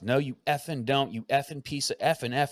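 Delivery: toned-down imitation of a yelled rant; retold yelling. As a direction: imitate a cussing rant without real volume. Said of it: "He's just yelling".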